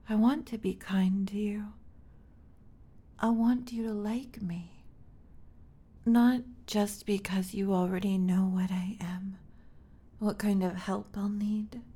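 tender whisper. Acted. Tender reassurance to hurt partner.

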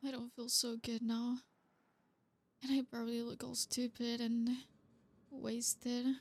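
slurry, tipsy speech; drunk. Acted. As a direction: sound a little wasted. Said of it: "I'm drunk too".

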